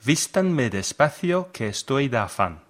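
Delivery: Spanish read with an American accent; English speaker's Spanish. Real, not acted. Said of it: "I'm sorry about my Spanish pronunciation".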